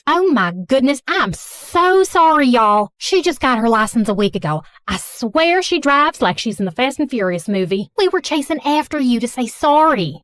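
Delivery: put-on thick Southern accent, fussing and apologetic. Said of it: "speaking in a thick Southern accent".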